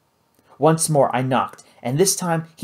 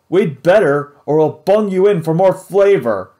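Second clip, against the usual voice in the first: loud, higher pirate threat; menacing pirate; 5 semitones higher, 7 dB louder than usual. Acted. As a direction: growl a threat at the cook.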